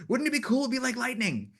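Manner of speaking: mock-excited crew member selling his idea; imitating eager Tom.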